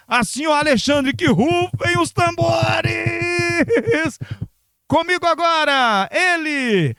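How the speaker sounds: drumroll hype for the star guest; grand entrance announcement. Acted. Presenting the guest.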